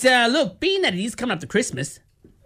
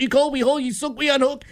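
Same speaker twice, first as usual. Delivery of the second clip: shouted slogan; 6 semitones higher than usual. Acted. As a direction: belt out the jingle line.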